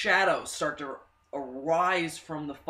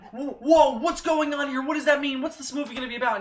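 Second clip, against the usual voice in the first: high, loud, breathless questions; excited wonder; 10 semitones higher, 6 dB louder than usual. Retold or imitated. Fan reliving the trailer, high excited wonder. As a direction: spill out amazed questions.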